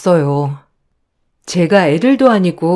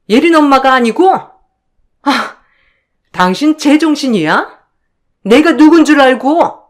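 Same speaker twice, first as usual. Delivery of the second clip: higher, contemptuous accusing voice; scornful sister-in-law; 4 semitones higher than usual. Acted. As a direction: sneer down at the younger in-law. 형님 fights her husband. (높고 비아냥대는 형님 목소리)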